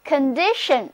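"condition" with the stress on DI; stress on second syllable. Shown as a demonstration. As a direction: model "condition" for repeating, leaning on its middle syllable. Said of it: "重音放在第二个音节上". (“condition”重音放在第二个音节di上)

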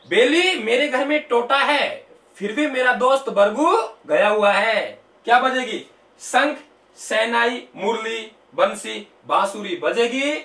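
measured recital with stretched keywords; mnemonic recitation. Shown as a demonstration. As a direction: lay out each item for students to memorise. Recites a memory-trick story. (याद कराने के लिए शब्द खींचकर पाठ)

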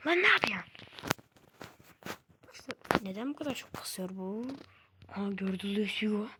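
urgent whisper at the game; hushed, excited whispering; whispering late at night over the game. Real, not acted. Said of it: "Sesim niye o kadar az? Çünkü saat geç".

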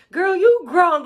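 high, loud imitation of mom; hammed-up high-pitched mother voice; dismissive mom. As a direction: brush it off as mom would. Mom's retold dismissal.

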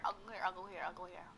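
stuttering glitch loop; fading repeated echo; glitchy repeat. Acted. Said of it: "I'm gonna do a glitch".

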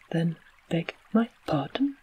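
a hint of a gruff clockwork man; lightly roughen the voice, barely out of the whisper; gruffer voice. Tick-Tock demanding the king's apology, lightly gruff. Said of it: "in a gruffer voice".

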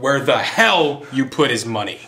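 each word pronounced distinctly; over-enunciated. Acted. Kidnapper demanding the boss's money, over-enunciated. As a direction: enunciate it hard, leaning on "hell". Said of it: "I enunciated the fuck out of that sentence".

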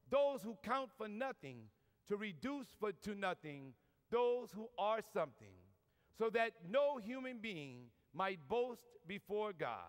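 slow, measured preacher's reading; deliberate scripture delivery with weighted pauses; scripture recitation. Acted. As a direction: proclaim the verse phrase by phrase, slowly. Recites scripture to open the talk.

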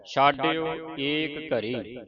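ਛਾਡਿਓ ਏਕ ਘਰੀ slowly, long aa in ਛਾਡਿਓ; slow correct demo. Shown as a demonstration. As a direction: draw out ਛਾਡਿਓ. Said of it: "ਛੱਛੇ ਨੂੰ ਕੰਨਾ ਲੱਗਾ ਹੈ". (ਹੌਲੀ ਸਾਫ਼ ਉਚਾਰਨ)

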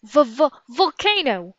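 high, slow, alarmed stammer; stuttering. Acted. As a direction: stammer on the first sound before the word gets out. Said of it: "stuttered Jack".

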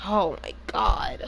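slow, drawn-out oh my god; exasperated groan. Real, not acted. Streamer groaning at teammate's mistake, exasperated. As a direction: drag it out in disbelief.

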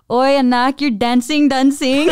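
lightly voiced teasing uncle; Tito impression. Uncle teasing a kid about dancing, lightly voiced Tito. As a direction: play a tito repeating his verbs, amused. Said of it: "everybody got that Tito boy".

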